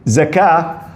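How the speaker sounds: slow words broken by real laughter; laughing through words. Real, not acted. Telling the congregation the huge zakah sum, laughing. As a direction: chuckle your way through the figure.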